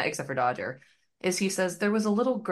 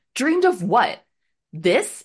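loud, fed-up, exasperated scream; 4 semitones higher, 8 dB louder than usual. Retelling a Lady and the Tramp scene, voicing the girl dog yelling at the puppy: imitating an exasperated scream. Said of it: "exasperately screams at him".

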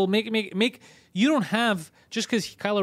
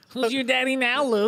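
goofy, put-on nerdy character voice; 4 semitones higher than usual. Riffing on Star Wars jokes, in a nerd voice. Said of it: "I like doing the nerd voice".

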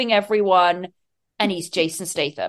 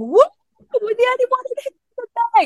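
put-on very high, thrilled, excited whoop; 14 semitones higher than usual. Telling how a friend walked in, the speaker retells shouting at her. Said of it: "I'm shouting".

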